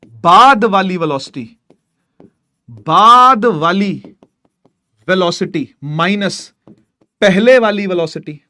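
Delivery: slow dictation. Shown as a demonstration. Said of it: "slow drilling formula".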